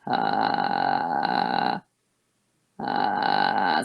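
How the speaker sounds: creaky low uh; low fry. Shown as a demonstration. Teacher starting the exercise in fry. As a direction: drop into fry. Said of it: "I could also do it at my resting resonance".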